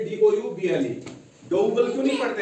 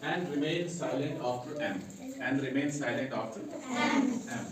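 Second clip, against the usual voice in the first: slow dictation; 5 semitones lower, 6 dB quieter, much slower than usual. Shown as a demonstration. Teacher dictating the rule slowly to students. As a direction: rule read out slowly, word by word. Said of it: "rule है".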